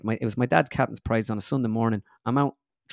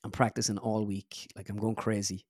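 choking up; 2 semitones lower, 6 dB quieter, slower than usual. Real, not acted. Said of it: "I'm nearly choking up talking about it".

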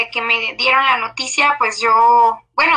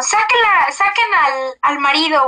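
grito retomado, más agudo; grito del doctor; 4 semitones higher than usual. Retold or imitated. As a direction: imita el grito urgente del médico. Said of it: "escuché que el doctor gritó como". (el doctor grita que saquen al marido)

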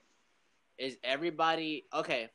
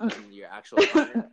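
high, loud laughing through the words; cracking up at his own joke; 11 semitones higher, 14 dB louder than usual. Real, not acted. To his guest, laughing at the awkward breakup.

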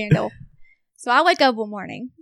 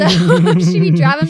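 laughing; 5 semitones lower, 7 dB louder than usual. Real, not acted. Laughs telling the joke.

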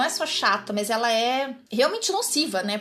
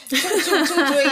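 higher, louder "tchum" noises; imitated wiper swish; 4 semitones higher, 6 dB louder, slower than usual. Describing wipers set off by mistake, imitating their noise. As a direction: mimic wipers swishing back and forth.

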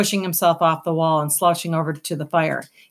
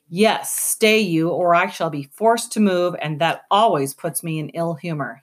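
unbothered and amused, taking its time; languid. Acted. The rat lazily warning armed humans to stay put. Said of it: "he said languidly".

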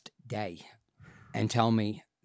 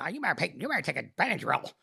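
higher, casual wifely advice; lightly voiced wife; 5 semitones higher, faster than usual. Wife advising husband about a bite, lightly imitated.

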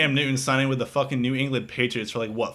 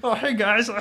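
mouth full of peanut butter; 9 semitones higher, 4 dB louder than usual. Retold or imitated. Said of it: "I wanna try that voice with, like, peanut butter in my mouth".

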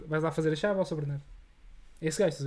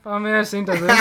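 loud, drawled Brazilian accent; easy Brazilian accent, tá vendo; 2 semitones higher, 6 dB louder than usual. Shown as a demonstration. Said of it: "sabes imitar bué da bem".

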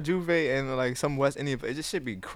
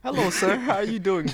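playfully formal, raised pitch; mock-polite greeting; 6 semitones higher, slower than usual. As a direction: greet a stranger with hammed-up politeness. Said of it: "I just be like".

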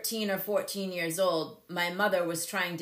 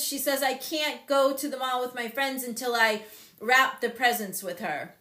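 ordinary talk, nothing marked

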